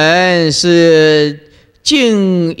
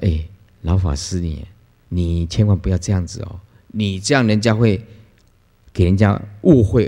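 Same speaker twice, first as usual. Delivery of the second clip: gentle counsel; 3 semitones lower than usual. Retold or imitated. Master gently counsels crying old nun.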